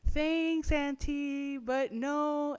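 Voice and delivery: high, loud, breezy dismissal; flippant refusal. Retold or imitated. Teen brushing off her aunt, high flippant no. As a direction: laugh the offer off. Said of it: "And I was like".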